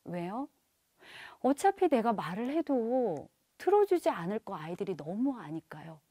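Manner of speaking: usual speaking voice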